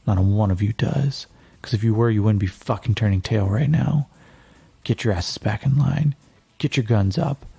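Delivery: fast, driving rally speech to fleeing soldiers; rally the troops with a hard push; rousing speech. Acted. Yakim rallying his fleeing squad, fast and forceful.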